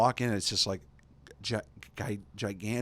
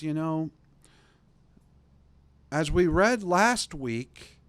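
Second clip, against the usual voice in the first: New York priest; 3 semitones higher, 3 dB louder than usual. Retold or imitated. Priest asking the congregation, a touch of New York preaching. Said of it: "you can hear that he's from New York".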